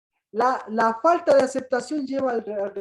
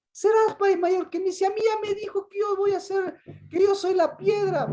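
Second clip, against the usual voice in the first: high, sulky protest claiming his place; indignant Peter; 4 semitones higher than usual. Acted. Peter protesting to Jesus in a high, offended voice. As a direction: Peter insisting he is the rock. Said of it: "el Pedro está ahí".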